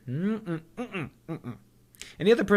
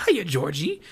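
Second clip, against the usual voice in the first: Pennywise impression; 4 semitones higher than usual. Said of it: "in the best Pennywise impression that I could do".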